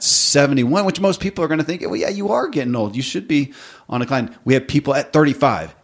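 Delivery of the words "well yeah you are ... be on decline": dismissive. Retold or imitated. Imitating dismissive people about aging.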